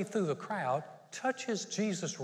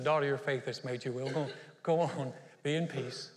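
gentle, unhurried, a bit lower; understated tender Jesus; kind; 3 semitones lower than usual. Retold or imitated. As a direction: bless her tenderly. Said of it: "so kind to the lady".

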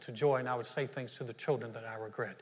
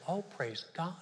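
mock pious calm; 2 semitones higher, 5 dB quieter, slower than usual. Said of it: "Don't tell me that you just go".

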